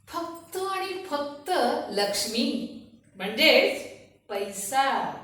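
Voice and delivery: soft, slow relish; greedy confession. Acted. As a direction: savour each word, hushed and deliberate. Reveals money is her true god.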